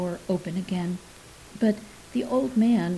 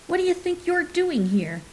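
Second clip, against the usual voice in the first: much higher, squeaky challenge; high squeaky blurt; 9 semitones higher than usual. A narrator's reading. Scared kid confronting an intruder by the tree, high squeaky blurt. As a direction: blurt it out, voice cracking high with nerves. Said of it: "My voice was high and squeaky".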